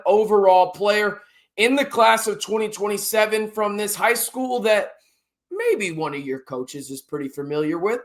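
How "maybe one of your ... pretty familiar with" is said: lightly sarcastic, lower and understated. Real, not acted. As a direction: toss it out as a knowing aside. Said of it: "That's obviously sarcasm".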